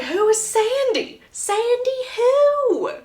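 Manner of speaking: high, slow and bewildered; drawn-out, disbelieving questions; baffled high voice. Acted. Confused brother questioning sibling.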